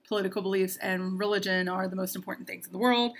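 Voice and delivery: sarcastic. Acted. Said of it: "that's sarcasm if you don't know me well".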